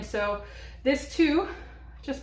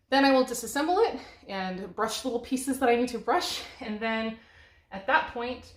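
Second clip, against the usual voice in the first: out of breath. Real, not acted. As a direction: talk while winded from squatting. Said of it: "I know I sound out of breath".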